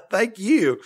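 breathless laugh into a high thank you. Real, not acted. Touched by review, laughing.

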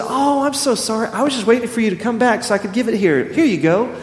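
put-on high, sweet apologetic old lady voice; lightly voiced elderly cashier, fussing sorry. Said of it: "And she said".

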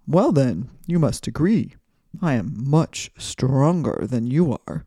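proud, blustering wind voice; boastful wind. Acted. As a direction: play the bragging wind. Wind insists it is stronger.

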